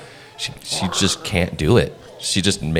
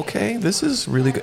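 high, eager quoted reaction; mock impressed. Quoting her own reaction to Skylar's conversation, mock impressed and much higher. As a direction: squeal it like someone dazzled. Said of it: "And it was like".

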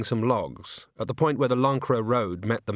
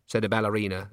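plain reading voice

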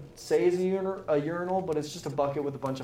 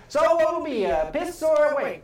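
higher, louder attendant voice; bathroom attendant voice; 10 semitones higher, 6 dB louder than usual. Acted. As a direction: play the cheeky towel man.

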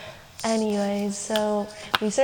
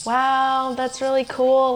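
fake enthusiasm; 4 semitones higher, 3 dB louder, slower than usual. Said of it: "Like, I didn't wanna be mean".

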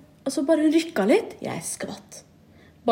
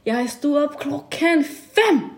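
slow, higher lecturing mock mother; imitating mom; 5 semitones higher, much slower than usual. Mom scolding her daughter for sleeping late, slow mock voice. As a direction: drag out every word like a scolding.

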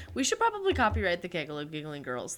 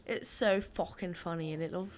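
put-on softer, whispered British accent; 3 semitones lower, 6 dB quieter than usual. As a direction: whisper it like a sly Brit. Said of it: "British is the one that I prefer to do".

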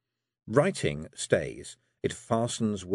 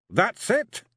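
high, louder rising disbelief; can it really be done; Rob amazed; 13 semitones higher, 4 dB louder than usual. Acted. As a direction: Rob astonished at his writing. Rob's voice.

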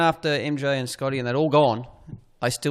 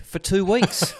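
raised, delayed punchline on "For two weeks."; punchline after pause; 7 semitones higher, slower than usual. Retold or imitated. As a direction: hold back, then land "For two weeks." high. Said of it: "he paused and then said".

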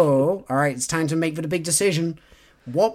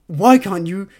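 hammed-up anguished pleading, building louder; melodramatic heroine; 5 semitones higher, 6 dB louder than usual. Host predicting the heroine's angsty line, loud and hammed-up. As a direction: play the tortured lover pushing him away. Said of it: "her being like".

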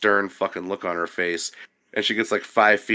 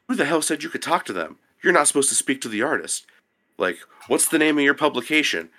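higher-pitched, indignant intern; quick, pitched-up retold telling-off; mock scolding; 6 semitones higher than usual. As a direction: imitate someone reading you the riot act. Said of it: "reading me the riot act".

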